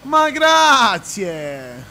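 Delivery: long, loud, stretched thank-you; drawn-out delighted thanks. Real, not acted. Thrilled thanks to a caller.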